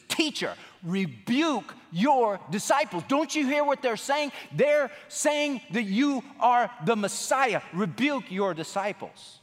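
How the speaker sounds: a mild mock protest, each word pressed; indignant religious leaders. Religious leaders' demand voiced to Jesus.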